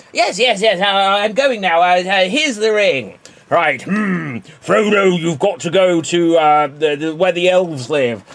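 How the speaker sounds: chirpy hobbit voices switching with Gandalf; Lord of the Rings characters. Acted. Improviser hamming up Lord of the Rings for audience.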